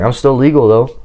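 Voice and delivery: ordinary talk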